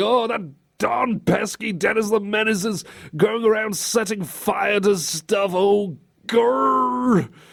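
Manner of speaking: high, slow exasperated grumble with dragged-out growl. Mocking a boss who only complains: mock fist-shaking exasperation. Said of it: "it's like shaking the fist at Dennis the Menace".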